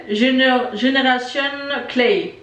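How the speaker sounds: English brand name in a French accent; halting attempt at English with a French accent. Real, not acted. Vlogger reading a brand name off the product, French-accented English. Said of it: "Oh, quel accent magnifique".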